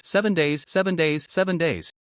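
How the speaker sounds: eerie repeated ghostly moan; moaning ghost woman. Acted. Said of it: "hoarse ... female voice moaned repeatedly and painfully".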